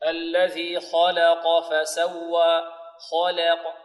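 slow recitation, heavy kha and qaf, light lam in "خلق"; "خلق" as khaw-la-qaw, measured and drawn out. Shown as a demonstration. Teacher models the verse, slow, heavy-light-heavy "خلق". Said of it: "فنفخم الخاء ونرقق اللام".

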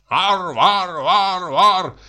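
high crowd chant; shrill rallying chant; crackling speech. Acted. Student makes crackling speech.

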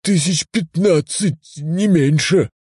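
satisfied announcement. Acted. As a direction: announce it with pride. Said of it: "удовлетворённо объявил он".

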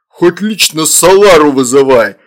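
loud, defiant retort; snapping back. A narrator's reading. Demon retorts to angry mother, snapping. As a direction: throw it back angrily. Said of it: "огрызнулся Фурундарок".

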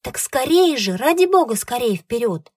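high, loud pleading cry; desperate plea. Acted. Frightened woman begs the ferryman to hurry, loud pleading cry. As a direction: beg them to hurry, voice climbing. Women plead as raft nears.

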